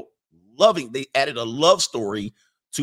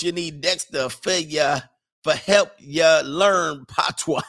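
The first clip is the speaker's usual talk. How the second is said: Caribbean patois attempt; 3 semitones higher, 4 dB louder, slower than usual. Shown as a demonstration. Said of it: "I probably butchered that up".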